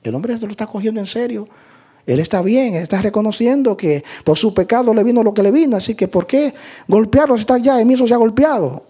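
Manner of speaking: high, quick imagined bystanders' chatter; lightly acted, rapid onlookers' verdict; voicing the onlookers. Voices the onlookers' reasoning about Job.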